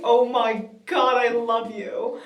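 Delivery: loud, slow, gushing reenactment; gushing adoration. Retold or imitated. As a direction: draw it out like a smitten fan. Gushing reply to the kids.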